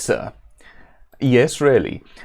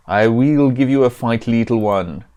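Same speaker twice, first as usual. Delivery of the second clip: hammed-up, badly faked Italian accent; 3 dB louder than usual. Pizza elemental accepts the fight with the hero, in mock Italian accent. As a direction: threaten in a put-on Italian accent. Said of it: "stop using this accent".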